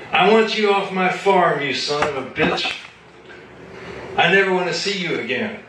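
put-on a drunk farm owner raging at the artist; apoplectic rage. A narrator's reading. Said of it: "he grew apoplectic".

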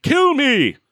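high, loud cry, last word held very long; hammed-up ecstatic wail, stretching the final word; crazed Reverend. Reverend slave answers what the monster will do, crazed high wail. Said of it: "And the Reverend says".

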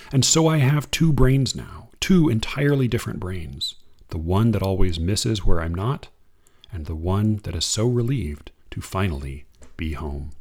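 unhurried reading of verse; poem reading. Acted. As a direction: read it like a poem to an audience. Reads a Limon poem.

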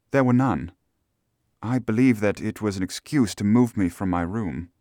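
lightly voiced lady answering questions; hint of a gentlewoman's voice; Miss Stoner, cooperative client.

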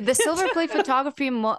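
giggling as she says it; words bubbling with a laugh. Real, not acted. Laughing while naming photo style.

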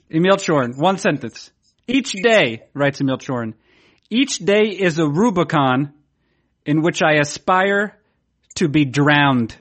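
slow, dramatic robot reading; clangy robot voice. Acted. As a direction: read it like a droning machine. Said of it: "you sound like a robot again".

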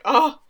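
imitated pained gasp of "oh"; shocked reaction. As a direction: let out a stricken mock "oh". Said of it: "the way she reacted".

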